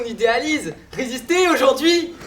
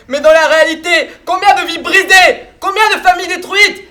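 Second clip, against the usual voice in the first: raised, higher voice, indignant questions; heated rebuttal; 4 semitones higher, 4 dB louder than usual. Acted. Sceptic confronts partners with broken lives, heated and indignant. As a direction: build to indignant, loud questions.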